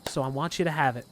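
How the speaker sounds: Southern mama accent, lightly put on. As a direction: play a motherly Southern woman. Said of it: "southern mama accent".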